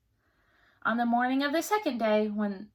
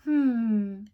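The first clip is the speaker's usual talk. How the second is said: slow, coy, drawn-out guess; queen savours springing the name; pretend thinking; 4 semitones higher, 4 dB louder, much slower than usual. A narrator's reading. Queen coyly guesses his name, slow. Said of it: "The queen pretended to think".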